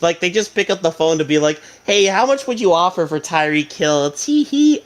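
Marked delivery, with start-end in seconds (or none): 1.8-4.8 prank-call voice rising into a squeaky tee-hee; giggling schoolgirl prankster. Acted. Dolphins prank calling the owner, mock schoolgirl giggle. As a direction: play it coy, ending on a high mock giggle. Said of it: "incessantly giggling like a bunch of schoolgirls".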